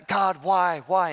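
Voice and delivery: a touch of kicking-and-screaming protest; mock protesting cry. Habakkuk questioning God, mildly crying out in protest. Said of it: "Habakkuk is kicking and screaming".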